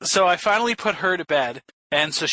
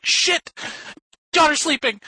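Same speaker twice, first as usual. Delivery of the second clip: high, urgent mock panic; retold alarm; 12 semitones higher, slower than usual. Dad remembering his daughter's sleeping, alarmed. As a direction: act out sudden alarm, pitched right up.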